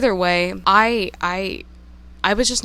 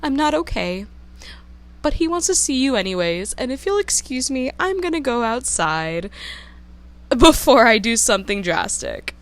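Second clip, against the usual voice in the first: higher, strained, rushed plea; upset, near tears; 5 semitones higher than usual. Retold or imitated. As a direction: hold it together barely, pitch up and hurrying. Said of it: "And I'm like".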